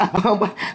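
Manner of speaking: short imitated laugh; mock brush-off chuckle. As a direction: fake a brief dismissive laugh. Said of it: "she starts laughing it off".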